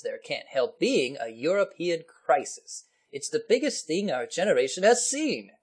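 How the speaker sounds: indignant mock English officer; exclaiming English officer. English officer correcting the Chicago man, exclaiming. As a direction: protest like an affronted English officer. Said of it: "the English officer exclaimed".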